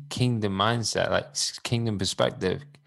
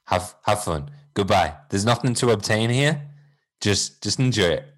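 a lightly voiced cheerful little fish Jesus, a touch louder; breezy wise little fish signing off; playful Nemo Jesus; 3 dB louder, faster than usual. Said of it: "Nemo Jesus, who's like".

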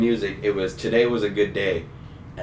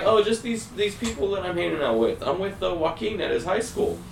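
high, bright fake-innocent hello; excited stoned greeting; 10 semitones higher than usual. Stoned teen answering grandma's call, high and overexcited. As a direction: sound way too excited to be normal. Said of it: "you sound really excited and, like, energized".

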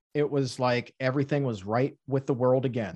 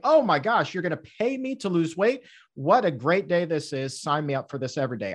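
excited; 2 semitones higher than usual. Retold or imitated. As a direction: gush like you just won the lottery. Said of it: "I was like".

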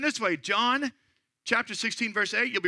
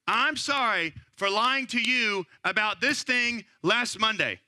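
specific apology; slower than usual. Shown as a demonstration. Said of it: "be specific, not general".

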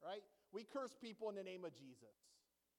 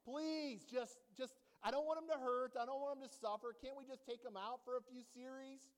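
pleading prayer; 3 semitones higher, 4 dB louder than usual. Pretend. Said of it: "I'm like".

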